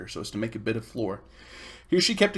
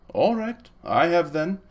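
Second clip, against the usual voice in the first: put-on boy's defiant louder reply; 4 semitones higher, 4 dB louder, slower than usual. Miserable boy admits crying to girl, louder. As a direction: say it louder, not caring who knows. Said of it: "in a much louder voice".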